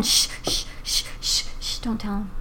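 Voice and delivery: hushed, unvoiced shushing; whispering a secret. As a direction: whisper so he won't hear. Hushing about affair secret.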